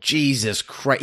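drawn-out incredulous Jesus Christ, rising at the end; slow disbelief. Real, not acted. Hearing the actor was six, slow stunned disbelief. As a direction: stretch it out in real disbelief.

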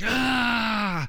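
a sudden high shout of a tormented spirit; demonic shriek. Retold or imitated. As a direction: let out a loud, high cry as the raging spirit. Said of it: "the spirit convulses and freaks out".

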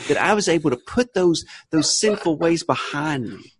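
mock-solemn Southern televangelist testimony; Southern preacher confessing sins; Southern witnessing. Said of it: "that's part of the witness".

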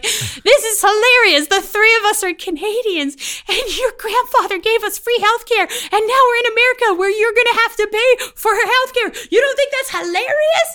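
high, loud, giddy shrieking; hammed-up hysterical glee; gleeful hysterics. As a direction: crow it way up high, delighted. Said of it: "I'm like".

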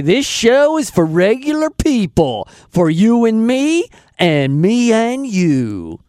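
a homespun country announcer twang with the last words slowed; country accent. Retold or imitated. Host imitating the voice guy's show intro in a country accent. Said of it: "with a nice country accent".

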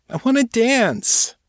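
very high, slow whine; whining. A narrator's reading. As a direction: plead petulantly, dragging it out. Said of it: "she whined".

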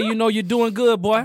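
lightly imitated encouragement from kin; New Orleans cousins. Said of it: "that's exactly how they talk".

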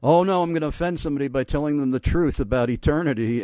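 a quick, lightly fretful inner voice; mock fearful worry. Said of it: "we have this fear and trembling".

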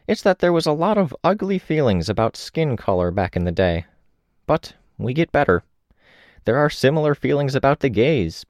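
a lightly voiced reflective old woman. Old woman speaking in story.

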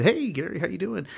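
high, sing-out hello; friendly greeting. Retold or imitated. Advisor walking into the manager's office, friendly greeting.

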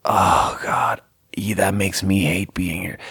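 breathless voiceless whisper; whispering an awkward inner thought. Retold or imitated. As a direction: hush it like a private groan of regret. Inner thought at awkward strip club.

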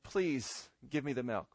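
soft, low, polite asking; polite request. Shown as a demonstration. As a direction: ask gently with a humble please. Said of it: "there's a difference between saying".

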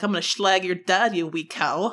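cheeky mock Scottish threat; Scottish accent. Retelling a woman's Scottish tweet, mock Scottish accent. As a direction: put on Scottish, ending in amusement. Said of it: "such a good accent".

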